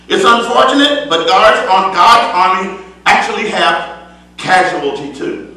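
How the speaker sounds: full-voiced preaching with rising fervor. Preacher exhorting the congregation in full preaching voice. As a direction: preach it out to the church.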